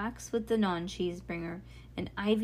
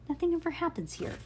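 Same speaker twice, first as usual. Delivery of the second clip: high, fast complaint; squawking; 9 semitones higher, faster than usual. A narrator's reading. Bean complaining about her street, squawking. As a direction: squawk it out in protest. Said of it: "Bean squawked".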